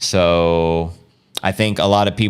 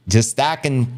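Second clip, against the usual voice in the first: higher, tentative Australian accent attempt; terrible Australian accent; 5 semitones higher than usual. Shown as a demonstration. Host attempting a listener's requested line, bad Australian accent. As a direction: start a poor Australian accent, pitched up. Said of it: "Aussie accents say".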